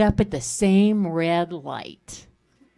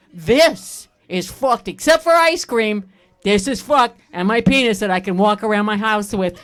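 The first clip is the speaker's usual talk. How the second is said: put-on toddler voice; 4 dB louder than usual. Toddler's complaint acted out.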